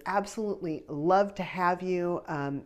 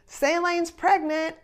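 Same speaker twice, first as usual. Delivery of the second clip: slow, higher, teasing announcement slipped into the photo cue; sly reveal; 13 semitones higher, 5 dB louder, slower than usual. Retold or imitated. Son-in-law sneaking the news into the photo count, slow sly announcement. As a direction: drop it casually like a joke, slowly. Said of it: "And then he says".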